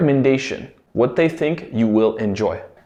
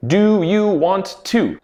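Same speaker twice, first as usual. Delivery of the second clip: full slow form; 5 semitones higher, slower than usual. Shown as a demonstration. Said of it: "wanna is a shortened casual form".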